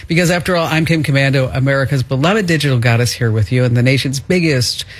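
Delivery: radio show intro voice; announcer. Acted.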